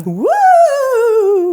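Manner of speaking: high spooky hoot; ghostly woo. Acted. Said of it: "that was just a voice I was doing".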